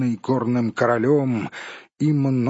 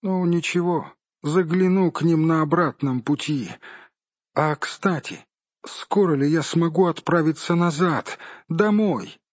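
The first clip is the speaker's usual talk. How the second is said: high, lively hobbit voice; 5 semitones higher than usual. Acted. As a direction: perk up like a cheerful hobbit. (бодрый высокий голос хоббита)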